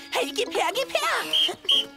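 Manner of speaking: demanding, grabbing; angry. Acted. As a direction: insist sharply, want it now. Kids fighting over treasure.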